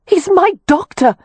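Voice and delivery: high, loud urgent cry; frantic cry. A narrator's reading. Wynne crying out to Kev to spare the doctor. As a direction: shout it to stop him. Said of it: "Wynne cried".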